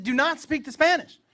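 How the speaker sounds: high, loud, heated command; exasperated order. Retold or imitated. Dad repeating the rule to his son, exasperated. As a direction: raise your voice and lay down the law.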